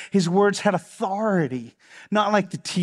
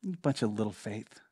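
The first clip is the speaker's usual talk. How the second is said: low, quiet pet-name murmur; soft chiding; 9 semitones lower, 12 dB quieter than usual. Retold or imitated. Jesus nicknames his disciples, chiding them softly.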